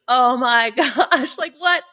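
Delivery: high, laughing mock panic at the steaming engine; retold disbelief. Retelling car breakdown panic.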